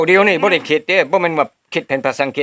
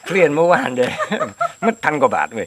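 laughing while talking; 3 semitones higher than usual. Real, not acted. Joking about cost, laughing.

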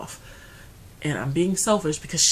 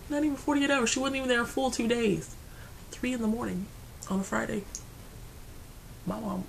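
high, strained grief; fighting back tears as she says it; choked-up and high; voice breaking; 7 semitones higher, 4 dB quieter than usual. Real, not acted. Grieving, voice rising as she recounts death.

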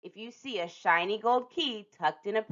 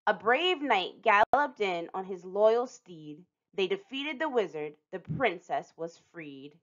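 storybook reading. A narrator's reading. Reading the book's rhyme.

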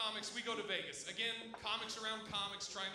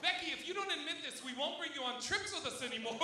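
higher mock threat, easing down; imitated accusing girl; 4 semitones higher than usual. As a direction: lay down an ultimatum in a girl's voice. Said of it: "immediately they're on her".

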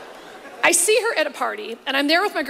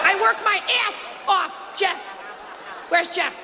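Paula impression; 3 semitones higher than usual. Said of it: "I walk around my house all day saying it".

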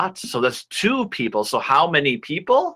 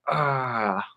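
strongman growl; 5 dB quieter than usual. Acted. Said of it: "You're gonna be like".

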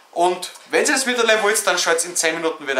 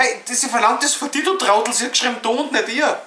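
higher, scolding a friend; mock scolding; 5 semitones higher, faster than usual. Real, not acted. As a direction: set him straight, teasing. Scolding friend, calls him Trottel. (spöttisch zurechtweisen, höher)

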